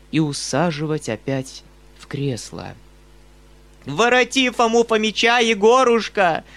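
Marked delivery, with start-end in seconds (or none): 3.8-6.4 high, loud pleading wail; a shrill old mother begging loudly; old woman wailing. A narrator's reading. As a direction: wail it at her son like a desperate old woman. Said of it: "продолжала вопить старуха".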